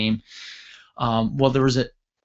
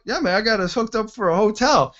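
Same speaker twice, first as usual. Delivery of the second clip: high-pitched, grinning, oblivious cheer; beaming excitement; 9 semitones higher than usual. Retold or imitated. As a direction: proudly share the good news. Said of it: "I'm smiling, like, ear to ear".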